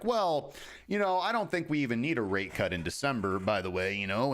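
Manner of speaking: a half-hearted stab at a central banker's voice; bad Jerome Powell impression. Quoting Jerome Powell's hawkish comments in a botched mock accent. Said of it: "I don't even know what accent that was".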